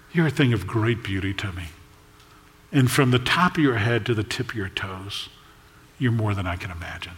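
soft, low, unhurried adoration; hushed loving wonder; tender praise. Acted. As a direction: speak gently to your beloved. Groom tenderly praising his bride.

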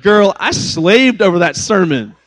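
put-on put-upon dad objecting to his kid; mock indignant. Mock retort to his daughter.

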